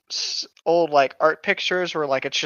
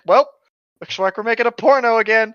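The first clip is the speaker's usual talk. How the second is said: mock weary gamer; 7 semitones higher, 6 dB louder than usual. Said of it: "Everyone just makes a dick".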